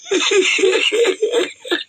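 a long high-pitched laugh. Real, not acted. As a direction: crack up laughing. Laughs after naming the show.

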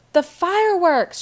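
high, loud, stretched-out cry; thrilled yell; excited shout. A narrator's reading. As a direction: shout it as you suddenly realize, high and long. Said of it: "shouted Jessie".

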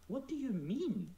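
incredulous what do you mean; retold disbelief. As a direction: ask it in mock shock. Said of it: "I'm like".

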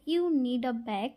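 very slow You need a bag, bag with no g sound; British bag. Shown as a demonstration. Demonstrating how cashiers swallow the g in bag, slowly. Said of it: "ব্যাগটাকে এরা পুরোপুরি জি এর উচ্চারণটা করে না".

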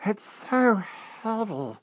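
put-on high, slow, broken wail like a sad child; plaintive. A narrator's reading. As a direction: lament it like a small, sad child. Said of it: "he said plaintively".

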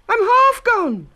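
very high, loud, slow wail; high drawn-out panic; frightened cry. A narrator's reading. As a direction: wail while being eaten. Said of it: "Then he cried".

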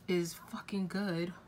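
sheepish whispered aside; whispered curse. Real, not acted. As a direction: whisper the swear word. Hushing a curse word.

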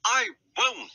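high, haughty refusal; indignant refusal. A narrator's reading. Daisy refusing her driver's order, high and indignant. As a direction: dig in, voice pitched right up. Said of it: "was most indignant".

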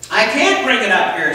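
put-on high, eager child calling up from the basement; little boy's voice. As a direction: sound like a small kid begging mom to come. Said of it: "said the little voice".

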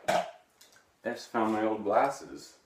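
loud, hammed-up discovery; surprised. Vlogger finding his old glasses on camera, mock amazed.

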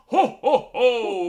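booming jolly Santa laugh. Pretend. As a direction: belly laugh like Santa Claus.

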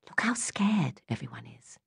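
hushed whisper in the street. A narrator's reading. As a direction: breathe it so no one hears. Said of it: "whispered Bonnie".

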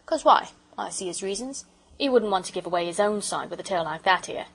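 lightly voiced working-man porter; a hint of cockney railwayman; opinionated porter. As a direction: explain firmly as a homespun porter.

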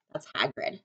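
plain reading voice

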